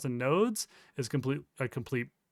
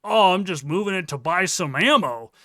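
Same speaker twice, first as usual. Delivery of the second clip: exasperated; 6 dB louder than usual. Real, not acted. Ranting about the excuse.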